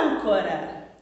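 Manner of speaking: Âncora with ÂN held long and loud; stress on ÂN. Shown as a demonstration. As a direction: stretch the first syllable of Âncora. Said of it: "Qual sílaba que eu pronunciei". (Âncora com o ÂN forte e prolongado)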